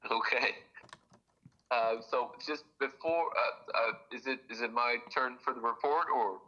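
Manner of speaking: tinny phone-line sound; phone speaker. Real, not acted. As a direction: voice through a speakerphone. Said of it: "Can we put you on speakerphone?".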